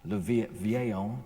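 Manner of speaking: slow, halting attempt at French place names in a French accent; self-conscious French accent on the names; terrible French accent. Shown as a demonstration. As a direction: sound the French names out carefully, stumbling. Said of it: "excuse my terrible French accent".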